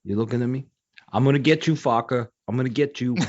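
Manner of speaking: lightly imitated New York menace; mock threat from a movie tough guy; Robert De Niro. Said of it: "De Niro, love that guy".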